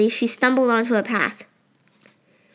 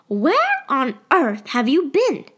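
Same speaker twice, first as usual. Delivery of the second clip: worried scolding mother; 4 semitones higher, 4 dB louder, slower than usual. Acted. Mother scolding Sophie on return.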